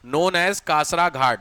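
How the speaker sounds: very slow, each word spaced out; slow dictation. Shown as a demonstration. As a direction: spell it out for the class to copy. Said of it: "dash करके लिखो". (धीमे से लिखवाना)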